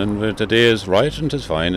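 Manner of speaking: lilting Kerry accent, up and down; sing-song Kerry accent. Shown as a demonstration. Guide showing the Kerry sing-song accent to visitors, light Kerry lilt. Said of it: "a kind of a sing-song accent".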